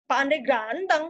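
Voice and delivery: emphatic, drawn-out GANTENG; firm stress on "ganteng", then falling. Shown as a demonstration. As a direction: insist by stretching the first syllable of "ganteng". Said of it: "ada yang penegasan".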